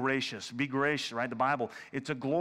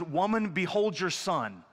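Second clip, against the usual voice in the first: lightly voiced Jesus; 4 semitones higher than usual. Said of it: "he looks at Mary and he goes".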